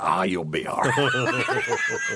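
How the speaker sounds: slow, drawn-out mock call, half laughing; dismissive passing shout. Husband running by the stumbling lady, drawn-out dismissive shout. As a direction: call it out carelessly while fleeing.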